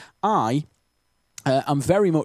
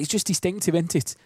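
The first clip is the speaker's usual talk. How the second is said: higher-pitched Potteries lilt; Stokey accent; 4 semitones higher than usual. Real, not acted. Presenter on how distinctive the local accent is, Stokey accent. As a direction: let a Stoke accent slip out. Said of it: "I've just said it then".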